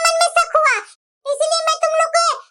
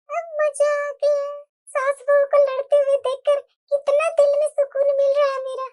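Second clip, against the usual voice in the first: gloating; 3 dB quieter than usual. Acted. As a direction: savour the trouble she caused, quietly. Scheming aunt gloats alone.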